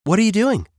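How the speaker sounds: high-pitched raccoon question, falling at end; high cartoon raccoon voice; curious raccoon. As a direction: ask as a perky raccoon.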